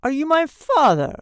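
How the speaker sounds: put-on loud, high old man's demand; cracked ancient voice. A narrator's reading. Old man questions Mister Button in cracked voice. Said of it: "in a cracked and ancient voice".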